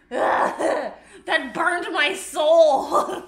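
slow, drawn-out laughing groan. Real, not acted. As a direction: stretch it out through laughter. Still burning, laughing.

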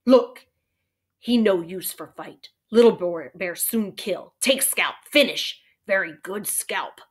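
slow, broken-English warrior, lightly acted; deliberate, choppy phrases, mildly scornful; lightly voiced Little Bear, scornful. Little Bear dismissing the cowboy as no fighter, slow scorn.

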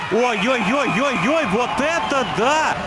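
slow drawn-out amazed gasp; amazed exclamation. Real, not acted. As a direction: marvel at the goal, slowly. Goal amazement commentary. (восхищённое изумление)

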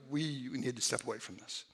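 quietly asking for time out before it boils over; calling a break. Pretend. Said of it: "Role playing".

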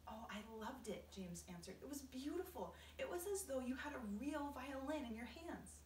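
a hint of an eager boy; lightly voiced delighted boy. James praising the grasshopper's playing, mildly delighted boy voice. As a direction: gush a little, pitched a bit up.

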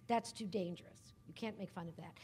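retold objection. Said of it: "when people are saying".

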